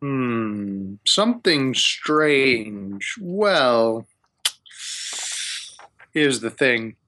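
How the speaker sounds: drawn-out, pondering wizard voice; scheming wizard. Acted. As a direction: bargain like a self-important wizard, lightly played. GM voices wizard Hamun Kost.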